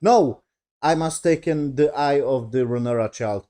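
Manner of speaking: mock-aggressive demand, high opening No; aggressive queen. Queen demanding the child's eye, mildly aggressive. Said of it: "very aggressive".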